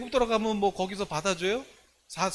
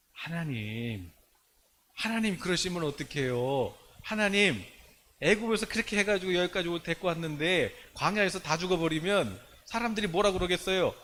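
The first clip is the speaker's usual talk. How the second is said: pleading. Acted. Moses pleading with God.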